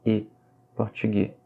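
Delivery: "E", then "Portugais" ending in that sound. Shown as a demonstration. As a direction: model "Portugais" with "ay" and silent S. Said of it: "le son, c'est E". (« Portugais » finissant sur le son « é », S muet)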